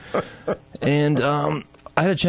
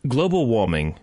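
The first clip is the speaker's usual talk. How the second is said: put-on English accent, imitating dad; tipsy attempt at an English accent. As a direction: say it like an English father. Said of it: "should I do this in an English accent".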